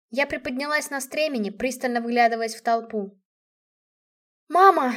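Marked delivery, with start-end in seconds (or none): 4.5-4.9 loud, higher cry for mom; a daughter yelling to her mother across the yard. A narrator's reading. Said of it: "заорала я".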